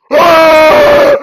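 loud, high scream of alarm; startled scream. Real, not acted. Player attacked by a polar bear, startled scream.

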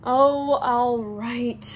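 loud, exasperated giving in; grudging agreement. Acted. Harry gives in to Hermione, grudgingly. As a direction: give in under pressure.

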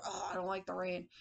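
lightly grumbled, low and soft; a hint of a grouchy man; angry old man. Teacher imitates man for the class, mildly grumpy. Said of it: "This man is very angry".

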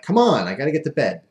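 retold annoyed whine; annoyed pleading. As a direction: plead like you're put out. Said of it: "like it was an annoyance".

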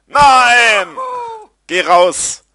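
loud, high outburst; yelling at the game. Real, not acted. Gamer yelling at his stuck character, loud outburst. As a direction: shout at the screen to get out.

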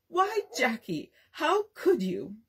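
slow, pleading dismay; almost in tears. Acted. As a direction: heartbroken reproach, held back. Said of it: "almost in tears".

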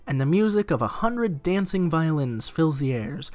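dramatic reading of flavour text; event text narration. Acted. Reading the palace ballroom text to viewers, dramatic. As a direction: read it like a storybook scene.

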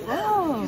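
high bleating goat call. Shown as a demonstration. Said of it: "Je sais faire la biquette".

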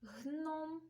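"Гном" with a drawn-out N; sound-highlighting pronunciation. Shown as a demonstration. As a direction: linger on the н in "Гном". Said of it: "та відстежимо".

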